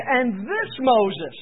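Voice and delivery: slow, with "this" stressed; emphatic this. Retold or imitated. Stephen defending himself, stressing this Moses slowly. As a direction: point at him with "this". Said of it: "we can imagine that he's going".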